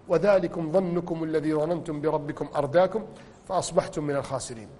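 hushed solemn recital of the verse; soft recitation. Acted. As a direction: let the verse fall quietly. Reciting verse again softly.

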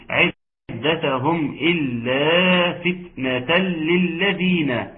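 slow recitation with long held vowels; Quran recitation. Shown as a demonstration. Teacher recites the verse for the class, slow tajweed recitation. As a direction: recite measuredly, drawing out the long syllables.

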